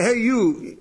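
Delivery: a curt "Hey, you" tossed at someone; brusque call. Retold or imitated. Speaker calling a stranger without his name, brusque. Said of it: "when you say".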